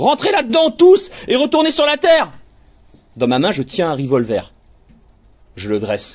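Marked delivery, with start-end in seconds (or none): 0.0-2.3 shrill, very high screaming. Narrator as the captain orders everyone back inside, screaming. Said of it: "Je hurle".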